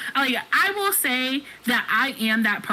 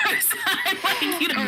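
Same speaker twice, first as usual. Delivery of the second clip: laughing through the words, pitch up; 10 semitones higher, slower than usual. Real, not acted. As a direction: breaks into laughter while talking. Laughs mid-sentence about first time.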